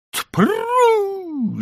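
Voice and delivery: sharp, very high yell to the donkey; whoa shout. A narrator's reading. Husband yelling whoa to stop the donkey, high yell. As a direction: bark whoa to halt her. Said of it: "закричал я".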